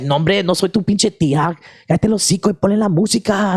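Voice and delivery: high mock drunk woman yelling in Spanish; imitating a rowdy drunk chola; drunk chola heckler. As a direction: heckle the comic like a drunk aunt. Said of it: "It's like".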